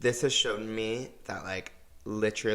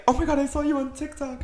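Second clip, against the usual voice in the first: high, fast squeal of excitement; thrilled, high-pitched gushing, retold; so excited; faster than usual. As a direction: imitate an excited fan squealing. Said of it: "she was so excited".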